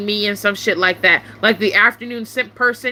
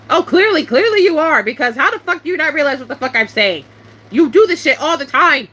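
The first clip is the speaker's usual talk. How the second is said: raised-pitch, irritated comeback; exasperated retort; 4 semitones higher than usual. Retold or imitated. Streamer firing back at Simp for acting stupid, exasperated. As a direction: jump in high and fed up. Angry retort to Simp's message.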